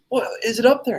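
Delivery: high-pitched mock worry; high, anxious imitated question; girlfriend imitation. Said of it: "she's just like".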